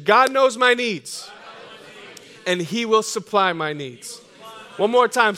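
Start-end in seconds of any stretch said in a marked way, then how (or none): 0.0-4.2 louder, slow and firm; slow, louder declaration of faith; with conviction. Shown as a demonstration. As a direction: declare it like you believe it. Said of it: "say it with some conviction".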